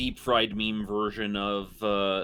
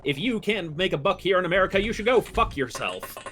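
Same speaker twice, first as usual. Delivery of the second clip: vintage radio announcer voice; grand old ballroom announcer; old-timey radio announcer; 4 semitones higher than usual. Acted. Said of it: "you have the ye old-timey radio announcer voice".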